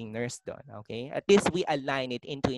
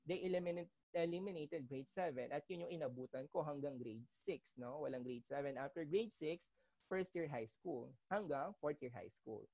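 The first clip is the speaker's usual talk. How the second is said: trailing off, much softer than before; voice fading; 17 dB quieter than usual. Real, not acted. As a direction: voice dropping far softer. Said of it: "Sir, humina po yung boses niyo".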